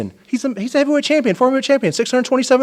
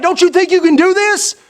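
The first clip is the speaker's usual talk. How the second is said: pitched up, pumping him up; hyped-up challenge; 6 semitones higher than usual. Acted. Manager hyping his wrestler, pitched-up challenge. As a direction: fire him up with the question. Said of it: "Get excited".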